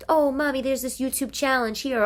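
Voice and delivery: put-on high, whiny little child asking mommy; kid voice. Mother imitating her child asking about YouTube, high kid voice. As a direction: play the excited kid.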